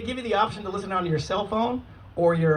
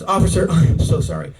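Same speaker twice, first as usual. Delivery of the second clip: lower, earnest mock apology; apologetic excuse; 4 semitones lower than usual. Minivan mom explaining herself to the officer, imitated apologetic excuse. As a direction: plead lightly, imitating a sheepish driver. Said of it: "This is her excuse".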